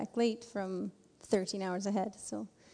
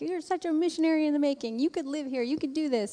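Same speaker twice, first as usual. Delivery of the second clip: excited praise; 6 semitones higher than usual. Retold or imitated. Local guys praising Andrew.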